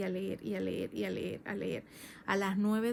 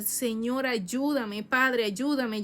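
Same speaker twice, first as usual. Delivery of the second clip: slow anguished plea, a bit louder; pleading prayer; 2 semitones higher, 4 dB louder, much slower than usual. Retold or imitated. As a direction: beg the Father for help, slowly. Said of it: "Y yo". (súplica angustiada y lenta)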